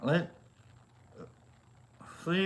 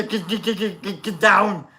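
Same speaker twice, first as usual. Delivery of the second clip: Arnold; 3 semitones higher than usual. Pretend. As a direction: bark it like Arnold. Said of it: "that's my favorite Arnold".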